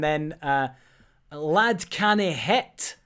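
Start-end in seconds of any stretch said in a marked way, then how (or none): 1.3-3.0 slow, put-on Scottish accent. Host presenting a silly anagram to co-hosts, mock Scottish accent. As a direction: draw the words out in mock Scottish. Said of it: "you definitely need a Scottish accent".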